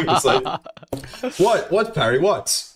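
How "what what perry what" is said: imitated stern reaction. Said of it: "looking at me with a stern face".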